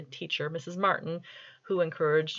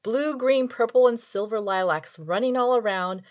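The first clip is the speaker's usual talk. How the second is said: very serious reading. Shown as a demonstration. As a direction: read a child's rhyme as if it were grand poetry. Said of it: "I'm going to do this as a very serious reading".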